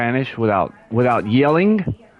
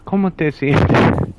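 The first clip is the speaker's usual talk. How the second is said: slower Spanish demo; 3 semitones higher than usual. Shown as a demonstration. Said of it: "Like, I can do it".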